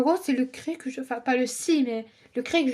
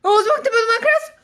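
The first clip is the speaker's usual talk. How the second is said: cheeky voiced line; 8 semitones higher, 4 dB louder, faster than usual. Voicing a character in the video.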